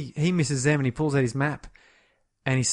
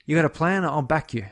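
lightly acted, higher-pitched fake support; feigned niceness; 3 semitones higher than usual. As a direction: sound mildly supportive while subtly undermining him. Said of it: "sounds like he's being really nice".

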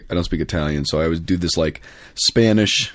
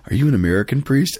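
eager excited question; 5 semitones higher than usual. Retold or imitated.

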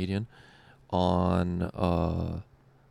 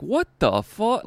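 baffled; 11 semitones higher, 4 dB louder, slower than usual. Retold or imitated. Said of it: "And I was like".

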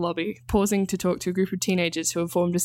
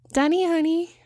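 Ansel's voice; 10 semitones higher, 4 dB louder than usual. A narrator's reading. Ansel voiced in read story.

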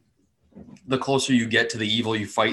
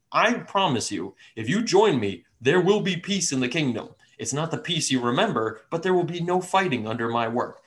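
persuasive dragon villain; 5 semitones higher than usual. Acted. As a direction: tempt them with a calm promise. Dragon offers peace.

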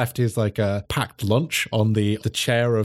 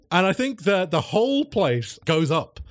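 normal talking voice

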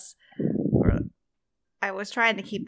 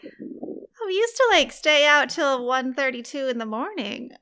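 wistful higher voice; 3 semitones higher than usual. Retold or imitated. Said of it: "it was just like".

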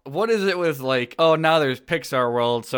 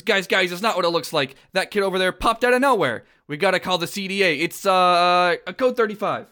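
higher, hurried excuse-making; Mike; 5 semitones higher than usual. Acted. Monster explaining a stray child to visitors, hurried and higher. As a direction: talk fast and high to explain it away. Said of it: "talks to Goof Troop and says".

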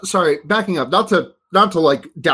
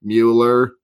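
aping a name; 5 semitones lower than usual. Retold or imitated. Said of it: "aping a Patrick name".

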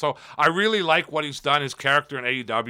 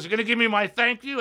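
higher, demanding promo voice; Jericho; 8 semitones higher than usual. Retold or imitated. Champion asking backstage crowd for thanks, mock brash demand. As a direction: imitate a champion demanding his due. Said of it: "just cut this promo on everybody".

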